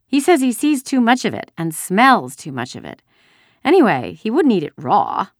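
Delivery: put-on high, loud childish chatter; silly little girl. A narrator's reading. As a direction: chatter on like a carefree little sister. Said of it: "a silly little girl".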